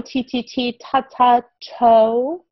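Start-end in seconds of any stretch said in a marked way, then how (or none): 0.0-1.4 light tapped T sounds; sounding out T. Shown as a demonstration. Teacher sounding out toe for a child. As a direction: tap T, then ta, building to toe.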